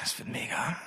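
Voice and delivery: hushed aside; whisper. Real, not acted. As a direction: whisper it to yourself.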